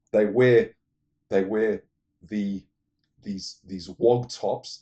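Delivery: loud, disgusted outburst; indignant rant. Real, not acted. Vlogger ranting about churchgoers' clothes, loud disgust. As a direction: spit out the complaint about sloppy dressers.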